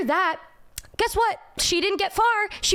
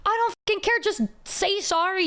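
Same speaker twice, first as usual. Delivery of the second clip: higher, exasperated demand; mildly worked-up retelling of an angry comeback; annoyed retort; 5 semitones higher than usual. Retold or imitated. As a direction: demand an apology, fed up. Retold quarrel over stepping.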